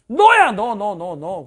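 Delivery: loud, punched 너야 at the start; insistent you, you, you; emphatic pointing. Real, not acted. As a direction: jab at the listener with each 너. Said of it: "pointing at the student".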